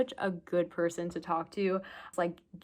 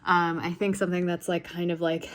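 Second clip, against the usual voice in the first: breathless and buzzing after the interview; excited; 5 dB louder than usual. Real, not acted. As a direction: rush it out, loud and eager.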